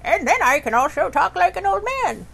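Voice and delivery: put-on playful influencer girl voice. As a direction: show off the voice range. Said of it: "run her through the range of being like".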